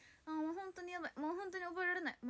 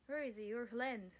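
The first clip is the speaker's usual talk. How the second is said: slow careful English; 3 dB louder, much slower than usual. Shown as a demonstration. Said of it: "repeats the English phrase".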